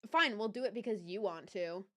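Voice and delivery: imitating grudging, put-upon agreement; passive aggressive. Ex giving in to a talk, passive aggressive. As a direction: agree as if it's all the other person's wish. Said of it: "said that in a way where it was like".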